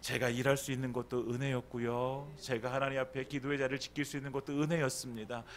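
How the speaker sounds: gentle confession of gratitude to God; humble thankful prayer. Retold or imitated. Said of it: "여러분, 이것이 아니라".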